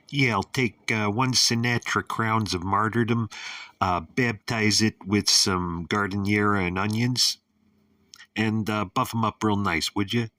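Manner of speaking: put-on loud, high Chicago accent sliding into obnoxious New York. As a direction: order like a brash Chicago mook turning New Yorker. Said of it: "a little Chicago accent that dovetailed into a, uh, an obnoxious New York accent".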